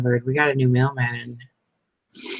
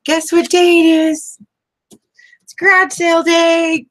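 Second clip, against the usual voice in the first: excited mom announcement; 14 semitones higher, 7 dB louder than usual. Retold or imitated. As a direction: announce it like waking kids for a treat. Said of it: "I used to say that to my kids".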